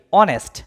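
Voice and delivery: অনেস্ট starting on a vowel, no h; falling answer, অনেস্ট with silent h; correct pronunciation. Shown as a demonstration. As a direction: model অনেস্ট as "onest". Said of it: "উচ্চারণটা কি".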